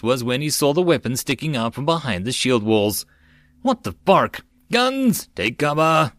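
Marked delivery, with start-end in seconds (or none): 3.6-6.1 sudden high shout, Guns! leaping up; yelling. A narrator's reading. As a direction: yell a warning to take cover. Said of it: "Terrier yelled".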